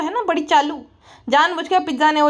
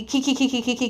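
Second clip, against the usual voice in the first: mock giggling; 5 dB quieter than usual. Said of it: "हंसने लग गई थी".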